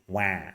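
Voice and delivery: "wah" a bit nasal; nasal baby cry. Shown as a demonstration. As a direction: model "wah" with a slightly nasal vowel. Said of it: "A bit nasal".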